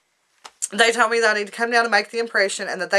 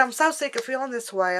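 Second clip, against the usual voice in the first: holding back tears; 4 semitones higher, 5 dB quieter than usual. Real, not acted. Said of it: "I don't wanna cry".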